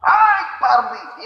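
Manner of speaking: a hammed-up husband's angry bellow at the door. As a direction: drag the name out in fury. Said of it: "রাগে আরো জোরতে বলছে".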